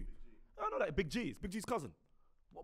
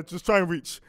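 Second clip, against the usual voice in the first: put-on "Just try and reach" said loudly to the kids; louder, as if telling the kids to fend for themselves; louder parent line; 7 dB louder than usual.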